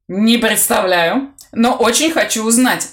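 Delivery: words tripping over a thick tongue; slurred speech. Acted. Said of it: "заплетающимся языком сказал Курт".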